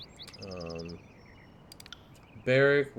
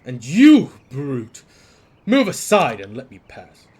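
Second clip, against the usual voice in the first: scornful shout; 2 semitones higher, 16 dB louder than usual. Acted. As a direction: order him aside. Merchant snaps at the guard.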